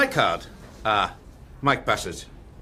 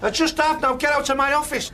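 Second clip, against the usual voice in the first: higher-pitched, irritated order to leave; angry dismissal; 5 semitones higher than usual. Acted. Manager ordering unwanted agent out of his office, angry dismissal. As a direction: throw him out, crossly.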